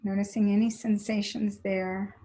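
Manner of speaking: even, unhurried body-scan voice; steady cues with long silences between them; guided meditation. Real, not acted. Teacher moving the class's attention up the legs, calm guided meditation.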